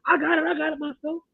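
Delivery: a curt brush-off of a gentleman's offer; mock snapback. Woman on the stairs snaps back at a helpful guy, curtly. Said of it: "how much snapback I get".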